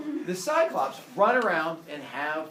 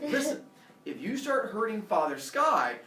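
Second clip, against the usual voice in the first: mildly stern, raised pitch; upset warning; 5 semitones higher, 3 dB louder than usual. Acted. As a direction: lay down a warning to unruly kids. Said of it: "he gets upset".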